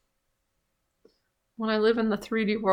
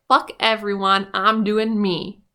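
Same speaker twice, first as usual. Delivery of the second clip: louder, slowing mock defiance; a light touch of the brash Wicked Witch; voicing the Wicked Witch as louder and defiant; 6 dB louder, slower than usual. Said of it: "the Wicked Witch of the West is more like".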